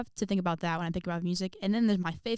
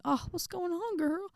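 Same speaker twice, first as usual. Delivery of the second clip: retold concern; 11 semitones higher, 3 dB quieter than usual. Asking her nearly crying friend.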